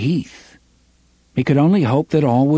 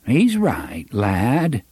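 reedy, quavering voice; 2 semitones higher, much slower than usual. Acted. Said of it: "in his reedy, quavering voice".

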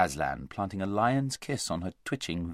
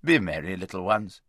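raised, kindly farewell; lighter voice; 2 semitones lower, 4 dB louder than usual. A narrator's reading. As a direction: send the little ones off lightly. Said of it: "spoke in a lighter voice".

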